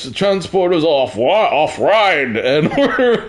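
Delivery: put-on caricatured Asian accent, breaking into a laugh midway; mock Asian accent. Streamer as Harry Kim reporting damage, high mock Asian accent. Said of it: "do my Asian accent".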